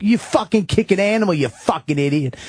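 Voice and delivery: high angry yell, dropping at the end; screaming. Retold or imitated. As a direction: scream at the man who kicked your dog. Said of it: "We were screaming at each other".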